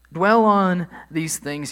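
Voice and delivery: slow, loud "Dwell" stretched high; "Dwell" drawn out and loud, the rest following slow; emphatic command. Acted. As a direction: hammer out "Dwell" slowly from the pulpit. Preacher quotes the key command.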